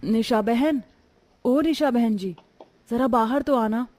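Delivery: calling to a neighbour from the doorway. Acted. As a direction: raise the voice to reach inside the house. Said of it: "दरवाजे से ही आवाज देती है". (दरवाज़े से पड़ोसन को पुकारते हुए)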